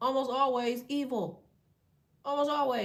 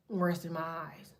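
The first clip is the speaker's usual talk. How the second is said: put-on old person excuse; 4 semitones lower than usual. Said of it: "Some old people shit".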